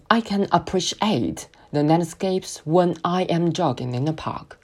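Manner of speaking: slow, "appreciate" and "when" stressed with pauses. Shown as a demonstration. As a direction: pause around the "when" clause, lean on "appreciate". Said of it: "突出appreciate，再突出…when". (慢速，重读"appreciate"和"when")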